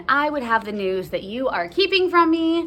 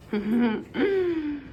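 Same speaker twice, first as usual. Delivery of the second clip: laughing; slower than usual. Real, not acted. Reader laughing through nurse line.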